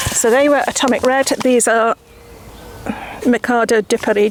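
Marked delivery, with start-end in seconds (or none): 3.3-4.3 Mikado de Paris in a light, hammed-up French accent; a playful touch of French on the variety name; mock French accent. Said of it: "Do you love my French accent?".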